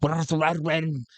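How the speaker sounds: lightly put-on rambling pirate voice; hint at a rambling pirate; Madman Gotul. Shown as a demonstration. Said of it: "it's kinda like talking like this".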